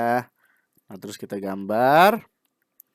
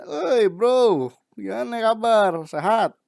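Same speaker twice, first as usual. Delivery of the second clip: cheery greeting; 9 semitones higher, 5 dB louder, much slower than usual. Retold or imitated. Drawn mouth greeting a friend.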